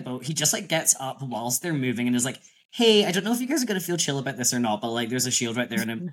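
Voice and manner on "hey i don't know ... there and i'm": casual dude voice. Retold or imitated. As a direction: toss it off as a cheeky casual announcement. Voicing Jazz jumping out.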